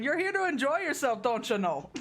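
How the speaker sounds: put-on Minnesota accent. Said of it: "a Minnesota accent".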